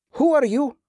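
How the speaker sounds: high-pitched challenge to strangers; soldier's challenge. A narrator's reading. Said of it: "one soldier asked".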